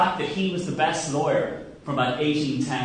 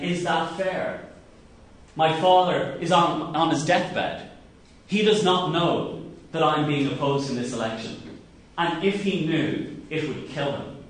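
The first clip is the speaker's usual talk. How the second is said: tearful plea. Retold or imitated. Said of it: "And he broke down in tears".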